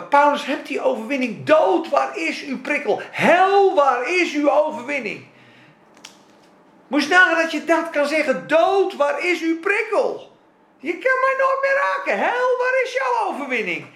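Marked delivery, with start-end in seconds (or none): 0.0-5.3 ringing preacher's challenge; proclaimed shout. Real, not acted. Preacher proclaiming Paul's triumph. 8.5-13.9 defiant cry mocking hell; triumphant shout. Real, not acted. Preacher taunting death and hell.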